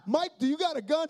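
nervous pastor asking his friend fast; anxious. Retold or imitated. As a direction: blurt it out nervously. Urgent question to Mike.

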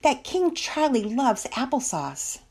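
high, slow mocking sneer; mock the little tyrant with drawn-out words; agitated sarcasm. A narrator's reading. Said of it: "became even more agitated".

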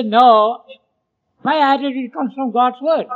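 firm declaration. Shown as a demonstration. Preacher showing the answer to critics, a firm declaration. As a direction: answer back with conviction. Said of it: "shut up and say".

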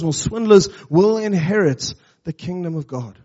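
measured, earnest Bible reading; scripture reading. Acted. Pastor reading scripture to the congregation, measured and earnest. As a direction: read the passage to the church with weight.

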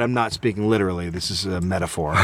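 put-on understated professor-baby voice; deadpan toddler. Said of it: "and then he said".

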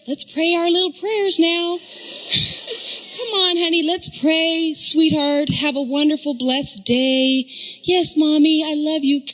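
lightly sweet, slow saintly mom; ideal mother. Pretend. Mom parodying the perfect calm morning mother, sweetly. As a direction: play the picture-perfect sugary mother. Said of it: "perfect Dobson mother".

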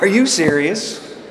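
high, loud laughing disbelief; teen son laughing in shock at parents' news; mock disbelief. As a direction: laugh through a teenager's shock. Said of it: "I'm like".

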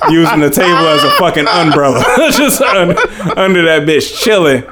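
laughing. Real, not acted. Laughing retelling friend under table.

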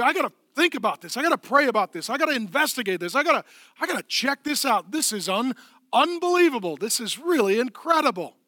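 quick, eager, mounting wonder; amazed inner voice. Retold or imitated. Preacher voicing a stunned believer, excited. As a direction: talk yourself into checking it out. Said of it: "something that just was shocking".

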